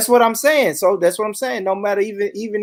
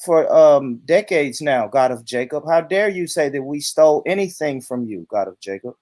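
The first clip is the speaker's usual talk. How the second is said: Todd. Pretend. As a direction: protest as a lightly parodied white man. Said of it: "transform myself into a rich white man".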